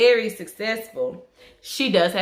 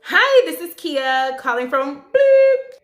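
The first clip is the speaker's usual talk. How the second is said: higher, louder and slow, polished customer-call greeting; business voice; 8 semitones higher, 7 dB louder, slower than usual. Retold or imitated. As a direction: put on the professional phone voice. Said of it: "in my business voice".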